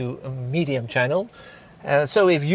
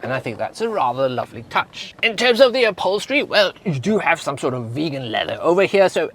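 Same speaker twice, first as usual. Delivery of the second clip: lightly hammed-up British accent with lively swings in pitch; attempted British accent, playfully proper; put-on British accent. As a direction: give a car tour in your best British accent. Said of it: "in my best British accent".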